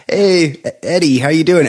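cheery grandma. Retold or imitated. Grandma with dementia greeting her visiting grandson, sweet. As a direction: greet your grandson kindly. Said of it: "and she's like".

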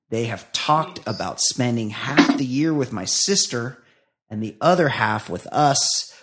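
measured read-aloud of a listener's letter; steady, deliberate reading voice; email read-out. A narrator's reading.

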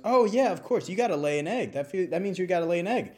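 breezy explanation, a bit fast; rooster voice. Retold or imitated.

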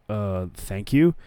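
mildly awkward, hesitant thanks; slow, uncertain thank-you, lightly acted. Wardlow answers the recruiters eyeing him, awkward. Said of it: "Wardlow's just all awkward".

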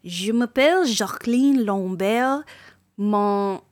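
"Je m'appelle" in a French accent. Shown as a demonstration. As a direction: introduce yourself in French. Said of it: "en français".

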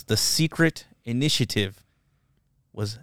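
slow, soft, fading to a whisper; hushed admiration. Real, not acted. Friend praises the master plan, hushed. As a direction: savor it, dropping to a whisper.

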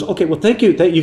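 mock-flustered old lady; flustered old woman. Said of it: "And she goes".

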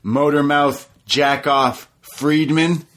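imitating DDP. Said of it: "He says".

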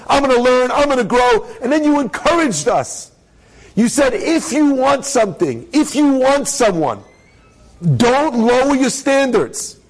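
worked-up, high-pitched recounting; acted indignant complaint, insistent and high; aggrieved tirade. Woman recounts her grievance to rabbi.

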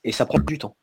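son de micro robotique qui grésille; glitchy robotic call; voix de robot. Real, not acted. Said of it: "Une voix de robot". (voix robotique qui grésille)

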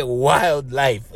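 "wildlife" with weight on "wild"; stress on wild in wildlife. Shown as a demonstration. Host repeats the word to make his point, "wild" stressed. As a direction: lean on the first part of "wildlife". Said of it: "I wanna stress the word".

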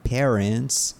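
"parents" said as PEH-rents with a rising end; slow, careful "parents" with the E of "pair"; pronouncing "parents". Shown as a demonstration. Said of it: "P, P, P".

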